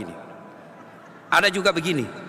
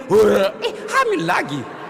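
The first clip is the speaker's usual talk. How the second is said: laughing surprise; 5 semitones lower, slower than usual. Retold or imitated. Preacher imitates the mother finding she is pregnant again. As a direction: give a caught-out giggle. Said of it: "Lima bulan kemudian".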